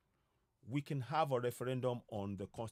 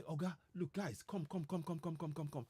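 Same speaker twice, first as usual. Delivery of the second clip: imitating a neighbour; 7 dB quieter than usual. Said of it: "ignite their community and say".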